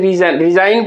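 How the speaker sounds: रिजाइन as "ri-zain", no G; रिजाइन, G dropped before the N; silent G. Shown as a demonstration. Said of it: "इसको हम लोग क्या पढ़ते हैं".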